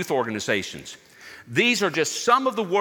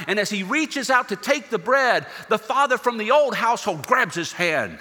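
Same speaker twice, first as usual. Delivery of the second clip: rising, louder preaching voice; building sermon intensity; 8 semitones higher, 5 dB louder than usual. A narrator's reading. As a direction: build the story toward its climax. Sermon story builds to climax.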